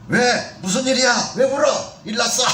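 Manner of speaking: put-on a startled mother rushing to her crying child, asking what happened; anxious, building questions to a crying child; alarmed mother.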